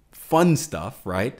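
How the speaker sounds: sarcastic lift in pitch on "fun". Real, not acted. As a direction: say it with mock enthusiasm, clearly sarcastic. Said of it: "see the sarcasm in my voice".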